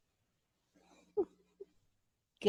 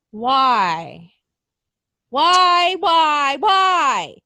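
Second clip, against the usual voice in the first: exasperated why; 4 dB louder, much slower than usual. Real, not acted. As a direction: cry out to the heavens in frustration. Frustrated outburst about storyline.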